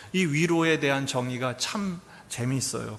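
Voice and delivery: normal talking voice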